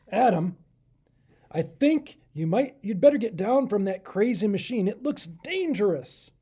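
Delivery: loud, urgent king calling up; worried warning. Acted. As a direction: call him down before he's hurt. King warns Adam off machine.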